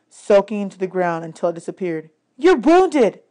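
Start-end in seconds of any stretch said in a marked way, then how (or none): 2.3-3.2 concerned Annabeth. A narrator's reading. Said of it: "Annabeth told me".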